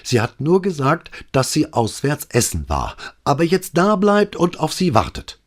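put-on rattled young officer reporting to his boss; agitated sergeant. A narrator's reading. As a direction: blurt it all out in a rush of alarm. Agitated Alvise reporting call.

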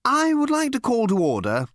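high, pleasant chairman. A narrator's reading. Captain calling the committee to order, pleasant. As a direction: open the meeting amiably. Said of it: "he said pleasantly".

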